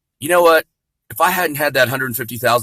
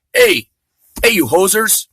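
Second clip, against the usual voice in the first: put-on jokey Canadian accent, first "Hey" yelped much higher; hammed-up Canadian "hey, you hosers"; mock Canadian accent; 7 semitones higher, 4 dB louder, slower than usual. Comic imitating Canadians, mock Canadian accent. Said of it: "talk like a Canadian".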